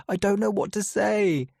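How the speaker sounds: high, strained voice with know pushed out; upset, teary. A narrator's reading. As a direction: blurt it out, close to tears. Repeats it, upset, near tears.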